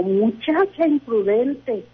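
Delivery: drawn-out mock scolding, rising in pitch; retold scolding. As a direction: imitate grandmother's reprimand, stretching the words out slowly. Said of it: "me gritó, me dijo".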